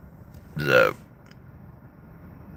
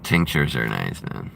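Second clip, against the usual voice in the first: Jesse Ventura impression; 8 semitones lower, 5 dB quieter than usual. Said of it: "I've been working on my Jesse Ventura".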